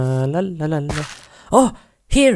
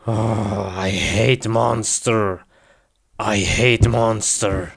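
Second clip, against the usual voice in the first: Hulk voice; 4 semitones lower, slower than usual. Pretend. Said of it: "Hulk is angry now".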